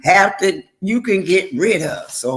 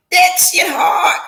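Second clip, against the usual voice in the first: choked up; 8 semitones higher than usual. Real, not acted. Admits facing herself is hard.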